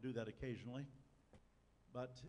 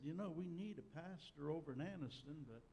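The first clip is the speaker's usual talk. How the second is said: imitated Southern accent, pitched up; put-on Southern accent, a little higher; 4 semitones higher than usual. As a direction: play an Alabama brother with a Southern lilt. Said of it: "in his southern accent".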